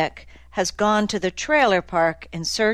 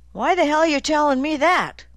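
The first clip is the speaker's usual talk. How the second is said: high-pitched, baffled protest; incredulous; 8 semitones higher than usual. A narrator's reading. Dozer baffled by Nick's snake story, incredulous. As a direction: ask as if he's crazy.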